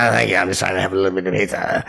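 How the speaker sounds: lightly voiced little troll; mumbled brush-off in a hint of troll voice; trollish voice. Guitarist wants to eat his pizza, light trollish voice. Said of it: "that little weird trollish voice".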